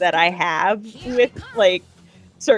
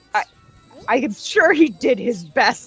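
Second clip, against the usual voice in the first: offended, put out, defensive tone; 3 semitones higher than usual. Speaker recounting a Batman line they loved, imitating offended Batman. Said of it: "the tone and like just the inflection ... all offended and defensive".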